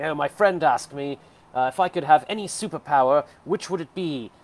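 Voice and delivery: slowed, lightly British comedian voice; a mild British accent, telling it easy. Retold or imitated. Ottawa vlogger retelling a British comic's joke, mild British accent. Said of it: "do the British accent for the British comedians".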